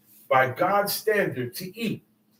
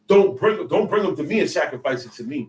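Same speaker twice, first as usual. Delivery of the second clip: stern God's command; 2 semitones lower than usual. Retold or imitated. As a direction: lay down the law as God. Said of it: "he ain't gonna tell you".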